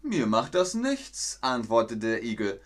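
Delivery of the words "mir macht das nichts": higher, slow, unbothered; smug calm. Acted. Hedgehog answers the hare, slow and unbothered. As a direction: shrug it off slowly.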